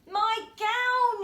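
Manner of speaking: high, loud joyful shout; excited yell. A narrator's reading. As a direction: shout it with delight. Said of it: "he yelled".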